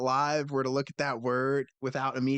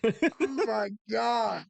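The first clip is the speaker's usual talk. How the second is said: embarrassed groan; 9 semitones higher, much slower than usual. Real, not acted. Embarrassed at the mistake.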